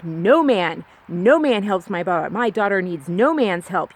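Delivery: mild mock scolding, emphatic and insistent; berating mother. Mother berating her daughter after the jump, mildly imitated scolding. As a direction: lightly imitate a mother's firm telling-off. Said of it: "my mom just berated me".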